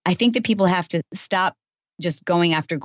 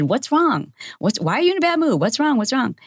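pressing concern; 8 semitones higher than usual. Retold or imitated. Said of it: "I said".

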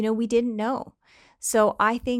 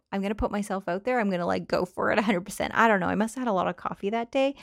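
quick, caffeinated rush of words; fast talking; faster than usual. Real, not acted. Podcaster hyped on coffee, talking fast. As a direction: rattle it off quickly. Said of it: "I'm talking fast".

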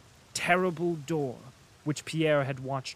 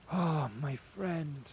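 weak and sincere; 3 dB quieter, slower than usual. A narrator's reading. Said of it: "a sincerity and weakness".

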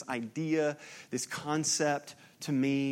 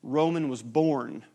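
Roman stressed, slow and deliberate; stress on the order; slower than usual. Shown as a demonstration. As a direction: lean on Roman, then pause. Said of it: "remember the order".

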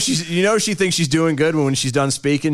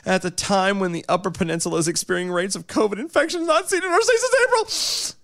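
reading a statement; 5 semitones higher than usual. Retold or imitated.

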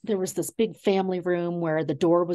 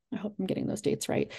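half-whispered, faster aside to herself; hushed quick self-correction; 7 dB quieter, faster than usual. Real, not acted. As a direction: drop to a quick whisper, unsure of the dates. Muttered aside about dates.

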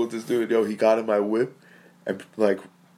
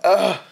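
startled gasp; 9 semitones higher, 6 dB louder than usual. Retold or imitated. Acting out his startled reaction.

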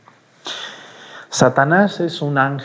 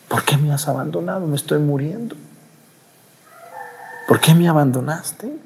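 pleading cry; 5 semitones higher than usual. Acted. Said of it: "¿Qué sentiría Jesús para decirle eso".

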